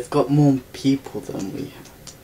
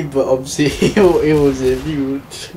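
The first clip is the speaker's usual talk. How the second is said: laughing; 3 dB louder than usual. Real, not acted. Player laughing at his own mistake, through laughter. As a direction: laugh it out at yourself.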